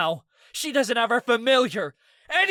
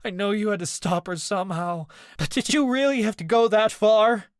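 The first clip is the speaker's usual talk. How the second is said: high, loud tearful pleading; crying; 11 semitones higher, 5 dB louder than usual. A narrator's reading. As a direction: sob it out to the friend. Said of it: "Ez cried harder".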